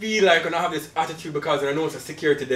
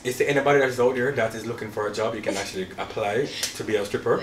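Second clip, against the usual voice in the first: folksy pandering politician voice. Acted. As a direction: address the public like a politician. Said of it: "this is my politician voice here".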